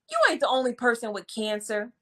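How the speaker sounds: dismissive. Shown as a demonstration. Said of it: "said it like that".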